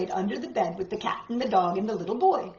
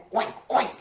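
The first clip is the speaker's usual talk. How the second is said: pig oinking. Acted. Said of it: "the pig said".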